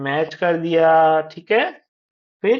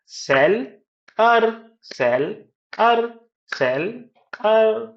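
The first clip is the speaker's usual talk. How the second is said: सेल, pause, higher अर; syllables to claps; 6 semitones higher, slower than usual. Shown as a demonstration. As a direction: beat out सेल and अर separately. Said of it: "clap से भी कर सकते हैं".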